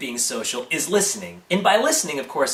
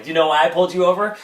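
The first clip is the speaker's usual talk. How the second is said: quicker, louder echo, rising at the end; parroting back; 3 semitones higher, 5 dB louder, faster than usual. Acted. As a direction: throw the officer's question straight back. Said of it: "if you repeat everything".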